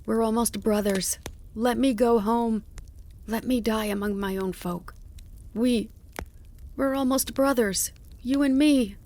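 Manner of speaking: high, insistent begging; lamenting plea. A narrator's reading. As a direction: beg desperately as one kin to another. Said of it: "The fox begged him even harder".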